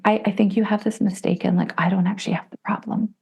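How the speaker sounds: imitating her own prim denial; self-righteous. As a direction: correct them as if you are above it. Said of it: "self-righteous Christine was like".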